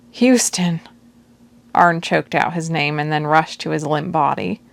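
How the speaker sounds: calm, even novel reading; story narration. A narrator's reading. Audiobook narrator reading a chapter to listeners, steady.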